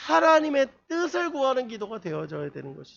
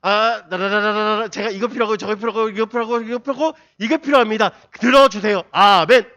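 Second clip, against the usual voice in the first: loud hammed-up list of wants; mock demanding prayer; 9 dB louder than usual. Preacher parodies a selfish one-sided prayer, loud and hammed-up. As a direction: bark out demands at God, then a loud amen. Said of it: "우리 하나님한테 어떻게 기도하는지 아세요?".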